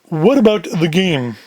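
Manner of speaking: slow, lightly voiced heavy. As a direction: press the question slowly in character. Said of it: "Big Sam in the deeper voice".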